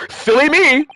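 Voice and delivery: put-on high, breathless young girl in alarm; excited girl voice. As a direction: gasp it out like a startled kid. Girl gasps, then giggles it off.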